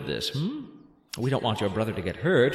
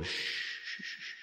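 shushing whisper; 14 dB quieter, slower than usual. Acted. Calming a panicking boy.

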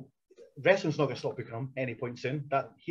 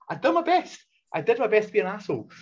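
mock proud; 5 semitones higher than usual. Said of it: "I was like".

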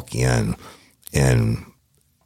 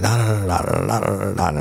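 high-pitched mock tirade in nonsense syllables; furious rant; 6 semitones higher than usual. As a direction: imitate a boss's endless chewing-out. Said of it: "I mean, he was furious".

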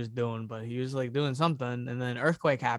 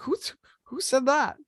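grandpa asking; 10 semitones higher than usual. Retold or imitated. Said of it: "He's like".

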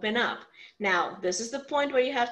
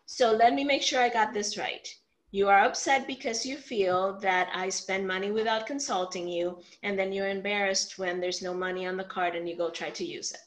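calm; 3 semitones lower than usual. Shown as a demonstration. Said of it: "but calmly".

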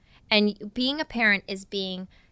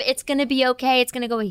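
mock kind reassurance; 5 semitones higher, 4 dB louder, much faster than usual. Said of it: "the most kind, really supportive".

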